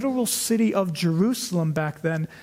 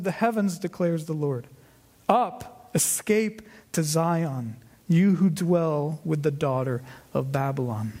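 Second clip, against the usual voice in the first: lightly solemn scripture reading. Acted. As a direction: read the verse with gentle weight. Reads scripture aloud.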